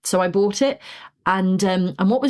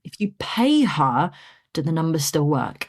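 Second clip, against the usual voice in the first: calm advice. Retold or imitated. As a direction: ask it calmly, giving each word room. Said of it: "in a really calm way".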